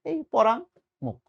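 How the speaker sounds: slow, each sound of পরাঙ্মুখ drawn out; careful pronunciation. Shown as a demonstration. Teacher models পরাঙ্মুখ slowly for students. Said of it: "সঠিক উচ্চারণ হচ্ছে just এটা".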